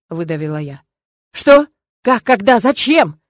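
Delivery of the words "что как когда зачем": loud, high, startled burst of questions; father shocked by news of marriage, alarmed outburst. A narrator's reading. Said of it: "папа испугался".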